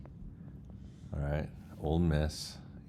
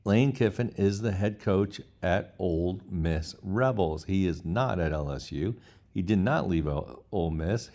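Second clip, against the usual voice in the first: clearly and finally; 2 semitones higher, 3 dB louder than usual. Retold or imitated. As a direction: lay it down word by word, settling it. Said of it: "Stated clearly and finally".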